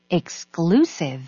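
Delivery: slow, measured "Exclusive"; pronunciation model. Shown as a demonstration. Native speaker repeating the word after spelling it, slow pronunciation model. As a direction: finish with a careful, drawn-out word. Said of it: "발음 드릴게요".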